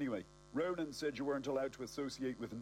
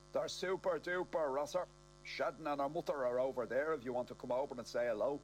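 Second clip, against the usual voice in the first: put-on raised, cheery old man voice; higher older man voice; 3 semitones higher than usual. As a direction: lift the pitch for a chirpy old man. Kenneth voiced again.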